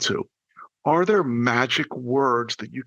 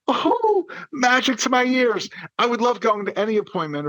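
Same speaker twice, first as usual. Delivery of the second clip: high, swooning delight; soaring "oh" of pleasure; 8 semitones higher than usual. Acted. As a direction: exclaim it as if thrilled to hear it. Delights in hearing the magic words.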